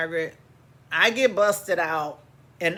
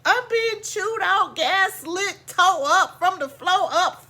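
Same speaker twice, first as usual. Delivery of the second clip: worked up; 9 semitones higher than usual. Real, not acted. Worked-up list of grievances.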